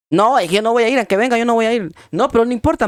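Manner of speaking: retold argument. Acted argument over going to church.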